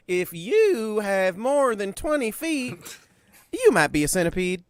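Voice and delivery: laughing through the words, slow. Real, not acted. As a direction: giggle while saying it. Laughing joke.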